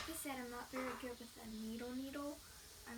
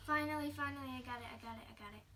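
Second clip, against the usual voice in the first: relieved excitement; 5 dB louder, much faster than usual. Real, not acted. Needle finally threaded.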